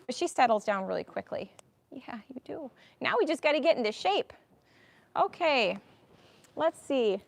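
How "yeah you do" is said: soft unvoiced whisper to the horse; tender whisper to the mare. Real, not acted. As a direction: breathe it softly to her.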